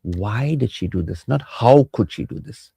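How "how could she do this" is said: slow, mildly shocked question. Shown as a demonstration. Spouse whose perception was broken, shocked questioning. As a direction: ask it as a drawn-out, disbelieving reproach. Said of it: "how means you're shocked".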